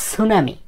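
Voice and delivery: "tsunami" pronounced as "sunami"; "tsunami" with silent T. Shown as a demonstration. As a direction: drop the T, start "sunami" on S. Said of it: "টি এর উচ্চারণ হয় না".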